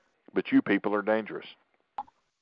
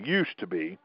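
"used" picked out firmly; stress on used; 6 dB quieter than usual. Real, not acted. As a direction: restate it with weight on "used". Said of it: "I stress the word".

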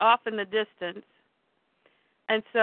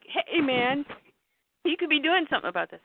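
higher, fast, pleading reproach; urgent confrontation; 6 semitones higher than usual. Acted. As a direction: press a friend to act. Pete confronts Clark.

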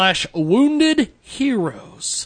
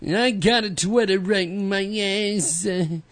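New York housewife; 3 semitones higher than usual. Pretend. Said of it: "Why do I sound like a, a, a housewife from, uh, New York?".

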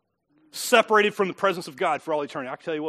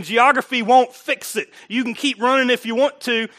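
preached voice of God; 3 semitones higher, 5 dB louder than usual. Acted. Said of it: "And God is saying".

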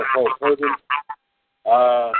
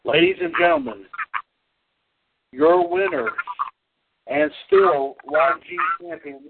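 booming pumped announcer; 3 semitones higher than usual. Acted. Announcing the trivia winner.

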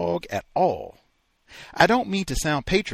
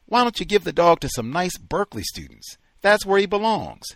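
raised, insistent nagging; urgent plea; 7 semitones higher, 6 dB louder, faster than usual. Acted. Wife urging husband, raised and insistent. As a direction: push him hard to get rid of it.

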